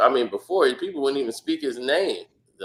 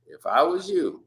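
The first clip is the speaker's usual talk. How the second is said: higher mock warning; 5 semitones higher than usual. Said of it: "He said".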